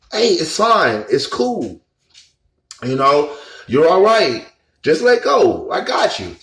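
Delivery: lightly imitating a soothing, reassuring voice. Woman's voice comforting him in meditation, mildly soothing. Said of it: "a soothing female voice".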